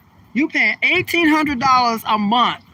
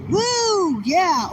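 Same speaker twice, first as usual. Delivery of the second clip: excited woo; 9 semitones higher than usual. Real, not acted. Repeats her woo cheer.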